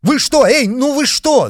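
very high, loud scared cry; panicked cry; frightened shout. A narrator's reading. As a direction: yell helplessly in fear. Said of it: "закричали вдруг рядом".

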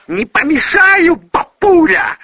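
shrieking, mocking the old man; shrill drunk girl. A narrator's reading. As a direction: squeal it sarcastically like a furious drunk girl. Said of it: "визгливым голосом осведомилась Юлия".

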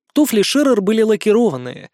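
plain reading voice

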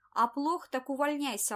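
loud, high, gloating glee; gleeful. Acted. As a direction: pounce on it, delighted. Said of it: "обрадовался Скуратов".

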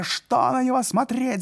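high, loud angry crowd; shouting. A narrator's reading. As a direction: rouse the crowd. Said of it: "закричали дворовые".

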